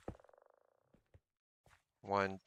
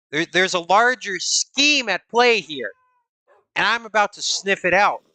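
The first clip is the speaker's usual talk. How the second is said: dramatic detective; 3 semitones higher than usual. Acted.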